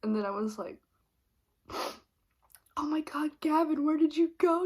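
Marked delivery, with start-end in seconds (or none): 2.8-4.6 higher, louder, fake returning-wife voice; a hint of over-the-top relief; hammed-up relieved wife. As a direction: pretend you've just woken up and found him. Pretending to come back to herself.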